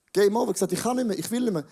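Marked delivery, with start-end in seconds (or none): 0.1-0.4 "Game Over" repeated louder, with a rising end; echoed louder. Shown as a demonstration. Preacher repeating "Game Over" to the congregation, louder. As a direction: punch out "Game Over" louder the second time. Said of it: "ist er Game Over".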